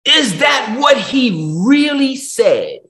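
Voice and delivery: full-force preaching of the lie; preaching shout. Acted. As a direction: hammer the devil's question loud. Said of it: "What is the first thing the devil said".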